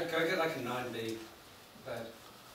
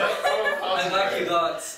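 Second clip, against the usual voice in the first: sincere; 2 semitones higher, much slower than usual. Real, not acted. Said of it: "and that's not sarcastic".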